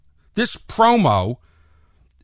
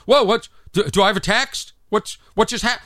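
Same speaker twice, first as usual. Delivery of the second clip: mildly startled, higher voice; startled reaction; 4 semitones higher than usual. Acted. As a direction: look up confused, asking in a hurry. Mimes startled phone checker.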